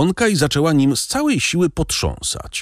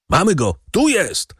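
shout from behind door; 9 semitones higher than usual. A narrator's reading. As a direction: call out the catch to comrades. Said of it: "krzyknął głos za drzwiami". (okrzyk żołnierza zza drzwi)

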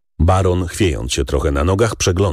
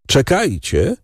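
call out; 8 semitones higher, slower than usual. A narrator's reading. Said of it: "krzyknął".

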